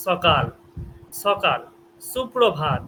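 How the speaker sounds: সকাল with a clean s at the teeth; dental s. Shown as a demonstration. Teacher giving students example words, dental s. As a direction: say সকাল and সুপ্রভাত with s, not sh. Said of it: "এটা কিন্তু আপনার দন্তে".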